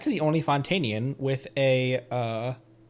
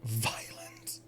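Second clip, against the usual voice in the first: hushed mock-menacing whisper; playful, very soft whisper; dramatic whisper; 3 semitones lower, 12 dB quieter than usual. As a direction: whisper it like a dark craving. Names craving with dramatic hush.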